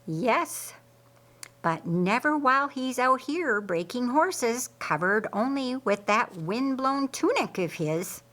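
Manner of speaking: sly, teasing tone; smirking. Acted. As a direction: needle her sister with a knowing grin. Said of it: "Mary observed with a smirk".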